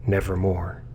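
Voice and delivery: mild croak of the raven; softly croaked, ominous. Acted. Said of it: "meant in croaking".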